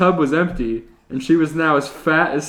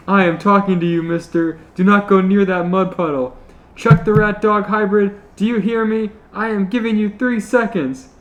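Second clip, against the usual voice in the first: loud, high stern scolding; scolding mom; 6 semitones higher, 5 dB louder than usual. Acted. Panty warning Chuck away from the mud, stern scold. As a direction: lay down the law like a mom.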